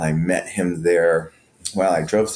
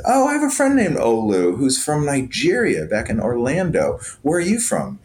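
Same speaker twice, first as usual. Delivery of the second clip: excited; 7 semitones higher than usual. Retold or imitated. Excited question to guard.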